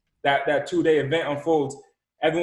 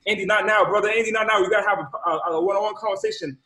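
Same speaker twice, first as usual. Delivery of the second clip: raised-pitch, hurried shushing of a caller; urgent brush-off; 4 semitones higher than usual. Retold or imitated. Host stops student's plea on group call, urgent brush-off. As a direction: cut him off, insistently.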